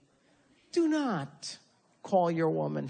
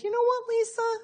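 mock self-compassion. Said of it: "with a little self-compassion and said".

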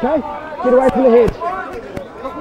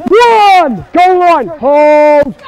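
shouted calls; 4 dB louder, slower than usual. Real, not acted. Referee calling over the play.

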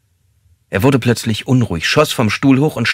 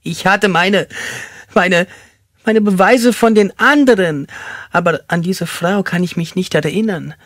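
very high, halting distress; whimpering confusion; 11 semitones higher, 3 dB louder than usual. Acted. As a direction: stumble and repeat in a high whine. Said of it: "wimmerte er".

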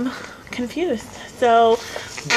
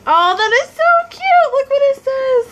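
high, bright delight; delighted squeal; 13 semitones higher, 4 dB louder than usual. Real, not acted. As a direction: squeal over something cute. Delighted by cute note.

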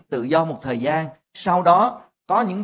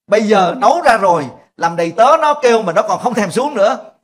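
mock angry rant; 4 semitones higher, 7 dB louder than usual. Mother-in-law rant, acted.

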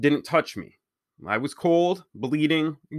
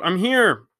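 calling out; 7 semitones higher, 4 dB louder than usual. Acted. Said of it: "I called out".

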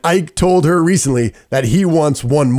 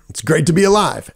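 Lin's tagline delivery; 3 semitones higher than usual. Retold or imitated. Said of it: "that was one of his taglines".

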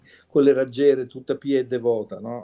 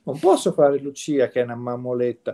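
mock angry actress. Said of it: "E lei si arrabbiò".

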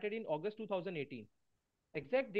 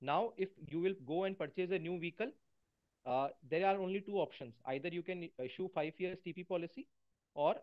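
faint, distant mic sound; barely audible. Real, not acted. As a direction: voice coming through very faintly. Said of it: "Sir, your voice is very low".

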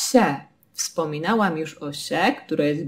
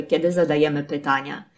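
normal talking voice

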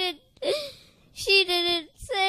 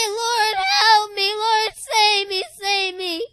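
pleading cry; 2 semitones higher, 5 dB louder than usual. Retold or imitated. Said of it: "trying to reach for Jesus and say".

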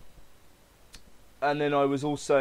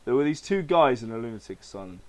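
a hint of the Joker, slightly louder; measured retake of the Joker's opening line; Joker reading; 4 dB louder than usual. Host retrying the Joker's first line, lightly voiced. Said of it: "Let's try that again".

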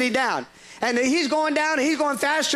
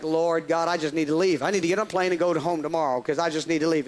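despairing prayer; 8 semitones lower than usual. Retold or imitated. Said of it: "It's like".

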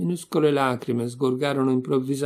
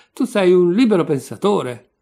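raised, higher voice, accusing; loud accusation; 4 semitones higher, 7 dB louder than usual. A narrator's reading. Quarrelling lodger denounces Senka, loud and accusing. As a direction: drive the charge home loudly.

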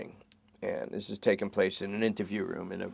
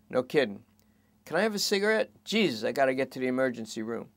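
higher, wistful then needy; strung-out junkie; 4 semitones higher than usual. Acted. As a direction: reminisce then beg for a smoke. Lester reminisces and begs.

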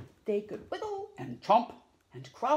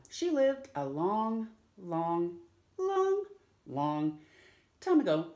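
sing-song long, long, long; stretched out long; 4 dB louder than usual. A narrator's reading.

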